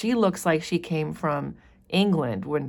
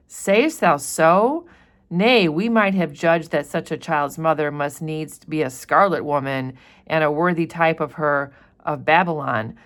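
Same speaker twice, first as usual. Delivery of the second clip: teacher reading the governor's verdict; lightly voiced stern governor. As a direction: weigh the matter like a stern magistrate. Reads governor's lines.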